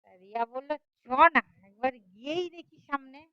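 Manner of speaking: lively, dramatic storytelling voice; story narration. A narrator's reading. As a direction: tell the tale with rising and falling suspense. (নাটকীয় ভঙ্গিতে গল্প বলা)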